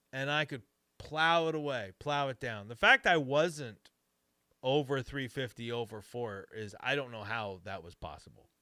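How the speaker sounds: chewing ice while talking; ice in mouth. Real, not acted. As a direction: talk around crunching ice. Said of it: "sorry, I'm chewing on ice".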